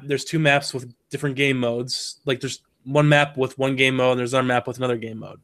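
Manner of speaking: stuffy nose, nasal and sick. Real, not acted. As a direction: talk through a blocked nose. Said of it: "Now, you have a nasally voice".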